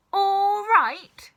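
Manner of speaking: put-on grandma yelling back at the boy; yelled. A narrator's reading. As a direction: fling it back in disbelief. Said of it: "she yelled".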